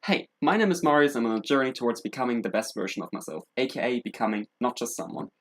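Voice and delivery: upbeat greeting, settling into a steady intro; presenter's self-introduction to camera; video intro. Acted. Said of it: "I'm going to be like".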